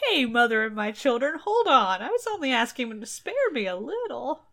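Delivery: husband pleading with his angry wife. Retold or imitated. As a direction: back off quickly, pleading. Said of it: "he's like".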